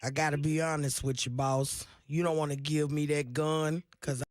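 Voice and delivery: put-on old man voice. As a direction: read the movie line like an old man. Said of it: "I'm trying to put my old man voice on".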